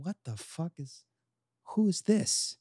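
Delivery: hushed, high-pitched disbelief; soft, baffled guest reaction; mock bewilderment. Wedding guests hearing a bad singer behind them, hushed bewilderment.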